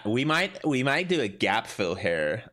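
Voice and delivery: lightly voiced valley girl, slow and rising. Joking to viewers, a light valley girl voice. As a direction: play a breathless valley girl, slightly. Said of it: "Like a valley girl".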